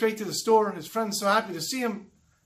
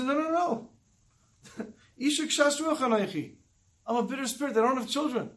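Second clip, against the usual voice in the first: higher-pitched, lightly acted pleading denial; retold protest; 5 semitones higher than usual. Chana answers Eli's false charge, mildly acted high protest.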